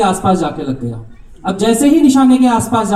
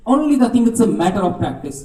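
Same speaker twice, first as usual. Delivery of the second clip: slow emphatic moral; 3 semitones higher, much slower than usual. Real, not acted. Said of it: "repeats the moral".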